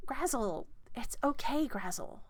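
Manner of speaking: a hint of a flustered gnome organiser; gnomish woman.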